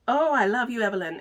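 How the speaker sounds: hammed-up bad French accent; badly faked French accent. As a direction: play a lover with a fake French accent. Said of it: "That's my bad French accent".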